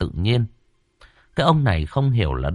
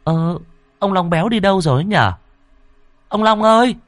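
much higher and louder, calling across the yard; 10 semitones higher, 5 dB louder than usual. Acted. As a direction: shout his name from inside the house. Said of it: "cô Thao từ trong nhà gọi to". (cô Thao gọi to tìm ông Long)

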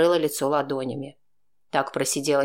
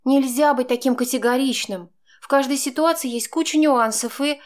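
Chaika, insistent; arguing woman; 9 semitones higher than usual. A narrator's reading. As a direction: press her point until cut off. Woman argues, interrupted.

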